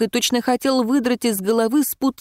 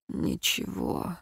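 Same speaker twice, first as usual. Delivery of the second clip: slow, soft, voiceless word; muffled; 3 semitones lower, 11 dB quieter, slower than usual. Acted. Ron mutters to the heroine, slow and voiceless. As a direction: barely breathe it out, dull and flat. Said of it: "глухо добавил он".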